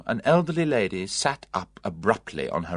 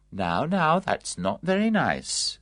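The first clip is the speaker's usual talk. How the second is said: mild; 7 semitones higher, slower than usual. A narrator's reading. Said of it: "said Miss Packard mildly".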